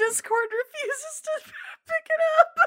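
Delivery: very high voice, speaking while laughing. Apologizing that discord won't pick it up: laughing while talking. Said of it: "I'm laughing so hard".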